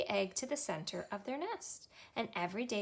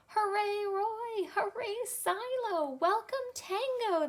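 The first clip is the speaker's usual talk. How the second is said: put-on high, loud children's cheer; 10 semitones higher, 3 dB louder, slower than usual. A narrator's reading. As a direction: cheer them on with joy. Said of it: "they cheered".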